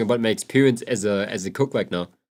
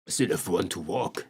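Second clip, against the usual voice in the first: lower, quieter, shrugging it off; tough old self; 5 semitones lower, 4 dB quieter than usual. Retold or imitated. Mocking his old work self, lower and shrugging. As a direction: play it down like nothing hurts. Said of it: "it would probably be like".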